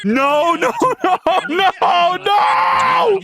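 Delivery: rising frantic no's, climbing high; panicked pleading. Real, not acted. Streamer begging the broken voice bot to stop, frantic. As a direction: beg it to stop, voice cracking upward.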